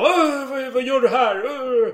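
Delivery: half-hammed nun scolding the soldier; outraged nun calling out, played for fun; mock angry nuns. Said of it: "nunnorna ropade till ilsket".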